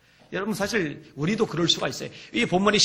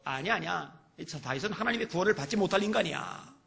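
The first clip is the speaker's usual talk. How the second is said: softer, lightly acted dismissal; dismissive scorn; 5 dB quieter than usual. Onlookers judging David beyond saving, mild dismissive scorn. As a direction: drop the voice to write him off. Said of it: "그리고 조롱하는 거예요".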